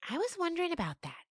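high, fast goat remark. Acted. Dandy musing aloud, high and quick. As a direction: chime in like a kid goat. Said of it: "Dandy said".

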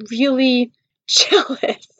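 slow, laughing admission; laughing confession. Real, not acted. Woman owning up to jealousy of a rival, laughing confession. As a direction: break into laughter on the words.

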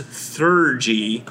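Thurgy sounded out slowly; careful pronunciation. Shown as a demonstration. Host introducing the new arcane tradition, carefully pronouncing Thurgy. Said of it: "which is pronounced".

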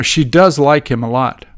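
"does" given extra weight; emphasize the verb "does"; stress on DOES. Shown as a demonstration. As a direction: lean on "does" as a teaching example. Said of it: "when you want to emphasize the verb".

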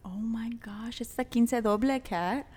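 awed little whisper. Pretend. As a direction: gasp it under your breath. Awed reaction to episode thirty.

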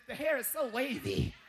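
a light mock of the wife gushing; imitating wife. Husband imitating his wife admiring a horse picture, light gushing. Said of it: "She said".

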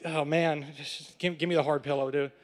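low, soft, defeated mumble; resigned surrender. Retold or imitated. Arrested student answering police about a pillow, resigned. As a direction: give in quietly, pitch dropped.

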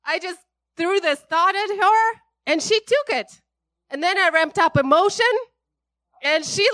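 the enemy cheering that his trick worked; gleeful enemy. Acted. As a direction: crow with delight like a scheming devil. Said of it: "He's like".

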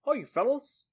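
high-pitched would-be British voice; put-on British accent. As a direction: read the listener's letter in a silly British accent. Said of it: "Sorry, that's my British accent".

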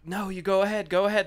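high, loud pushy politeness; insistent polite. Retold or imitated. At the bathroom line, pushing a stranger ahead, high and loud. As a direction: insist she go first. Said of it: "I kept telling her".

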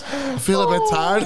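mock possessed voice. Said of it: "you're fully possessed".

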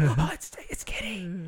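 high, breathless starstruck gasp; starstruck fan. Retold or imitated.

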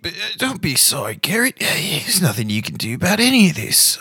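high, swooping, doting voice; reassuring Pavilion. Acted. Pavilion comforts little buddy Garrett, high and doting. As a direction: console him in a high, wandering character voice.

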